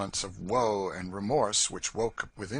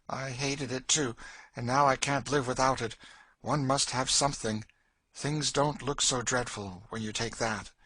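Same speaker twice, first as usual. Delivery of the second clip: slightly raised, weary-worldly voice; resigned Cassie; 5 semitones higher than usual. Acted. Woman admits needing brandy, resigned and bitter.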